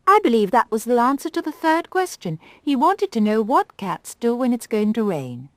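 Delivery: a proud little doll, miffed; Galdora the rag doll. Acted. Rag doll sniffing at the conceited cat.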